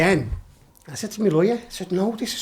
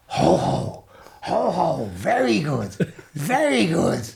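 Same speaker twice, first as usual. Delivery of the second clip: amused sergeant; much slower than usual. Retold or imitated. Sergeant laughing approval.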